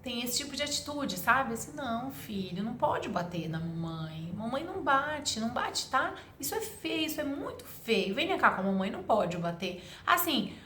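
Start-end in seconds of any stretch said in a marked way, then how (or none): 1.7-9.8 pleading mother. Retold or imitated. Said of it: "quase implorando pro seu próprio filho".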